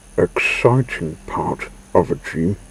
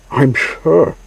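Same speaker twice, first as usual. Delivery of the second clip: higher and louder, calling back over distance; called back; 8 semitones higher, 3 dB louder than usual. A narrator's reading. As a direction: call it back to him. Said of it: "Mimi called back".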